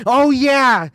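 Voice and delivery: high, loud, delighted yes; light up as it comes back; sudden recognition. Real, not acted. Streamer recalling the Chappelle skit to chat, excited.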